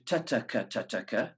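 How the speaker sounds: ta, ta, ka as a triple-tongue pattern; triple tonguing. Shown as a demonstration. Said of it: "With a triple tongue".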